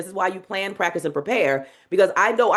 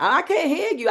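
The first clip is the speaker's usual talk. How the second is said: higher teasing call to the crowd; 6 semitones higher than usual. Shown as a demonstration. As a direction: egg them on for more noise. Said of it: "And I'm like".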